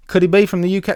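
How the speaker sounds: badly faked English accent; horrible English accent. Streamer guessing where a viewer is from, in a badly faked English accent. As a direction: put on a hammy, bad English accent. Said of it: "That's a horrible, horrible English accent".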